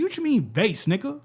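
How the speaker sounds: squeaky high voice, hammed up to mock the bass comment; mock high-pitched voice. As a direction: pitch it way up and get in his face, half joking. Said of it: "I got a high-pitched voice".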